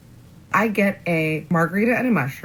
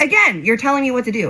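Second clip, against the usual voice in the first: higher, mock-indignant comeback; retold indignant retort; 7 semitones higher, 4 dB louder than usual. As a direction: fire back at him, reenacting. Retold quarrel with her date.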